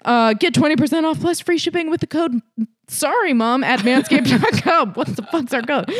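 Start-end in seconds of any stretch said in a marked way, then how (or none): 0.0-4.9 lively, pitched-up sponsor read; podcast ad read. Real, not acted. Host pitching tax-season grooming deals to ladies, playful ad read. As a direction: sell it to the listeners with playful emphasis.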